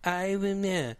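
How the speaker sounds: mock-solemn artist recital; mock performance artist. Mocking artist's spoken performance.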